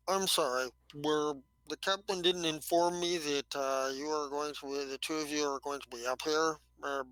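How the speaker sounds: lightly voiced slug scientist; a hint of stuffy, mush-mouthed Churchill; Churchill-like, stuffed mouth. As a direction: talk as if something's in your mouth. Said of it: "He's like Winston Churchill with some stuff in his mouth".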